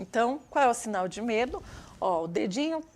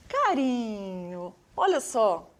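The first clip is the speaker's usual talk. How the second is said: tender; slower than usual. Shown as a demonstration. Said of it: "que delícia de sinal".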